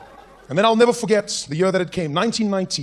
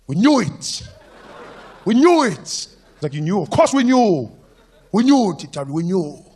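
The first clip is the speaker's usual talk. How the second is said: gleeful friends; 3 semitones higher, 6 dB louder, slower than usual. Retold or imitated. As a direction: cheer that you knew it. Friends loudly celebrating reveal.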